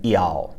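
"iao" with ee before the froggy ao. Shown as a demonstration. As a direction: glide "iao" from ee into ao.

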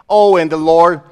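ordinary talk, nothing marked

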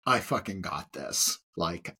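mock bravado. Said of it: "you're like".

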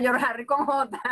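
George Harry said with a J sound; Venezuelan mispronunciation. Shown as a demonstration. Guest shows how Venezuelans say George Harry. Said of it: "como diría un buen venezolano".

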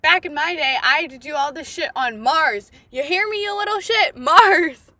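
mock old-timer scolding, rising to a loud yelled Mars; hammed-up back-in-my-day rant ending in a shout; grumpy grandpa lecture. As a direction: play the cranky grandpa ranting at the grandkids. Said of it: "talking to his grandkids and being like".

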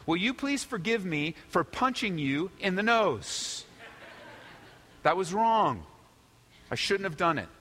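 imitating a sincere child's apology; heartfelt apology. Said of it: "from the heart, of course".

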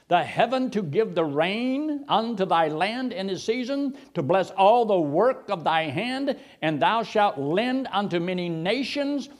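slow, measured King James reading; scripture reading. Acted. Preacher to the congregation, slow solemn reading. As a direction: read the verse with weight.

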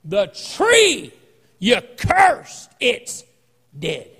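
high, excited call to the master; excited Peter. Retold or imitated.

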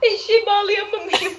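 giggling through it; after laughing hard. Real, not acted. Laughing fit continues.

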